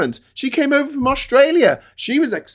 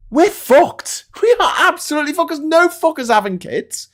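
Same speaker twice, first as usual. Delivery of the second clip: exasperated outburst; 6 semitones higher than usual. Real, not acted. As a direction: vent it, laughing at how bad it is. Exasperated rant about birth rates.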